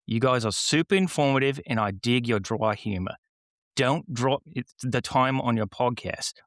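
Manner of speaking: put-on reading a review in a light Australian accent; a hint of Western Australia in every line. Podcast host reads a listener's review in Australian accent. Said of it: "The host will read it in his best Australian accent".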